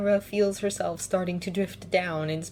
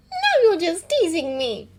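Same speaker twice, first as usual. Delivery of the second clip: scowling; 12 semitones higher, 7 dB louder than usual. Acted.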